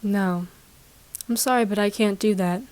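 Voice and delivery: put-on cold, toneless Baby Yoda refusal; flat tone. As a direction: say it dead flat, like a polite machine. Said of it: "kind of gets a flat tone".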